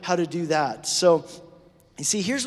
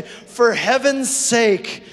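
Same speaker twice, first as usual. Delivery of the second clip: mock exasperated neighbour. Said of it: "Like we say".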